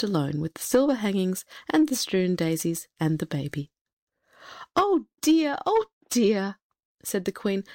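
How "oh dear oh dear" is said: high, fretful lament starting high, easing down; dismay. A narrator's reading. Queen left alone with king and baby, dismayed. Queen frets over the curse.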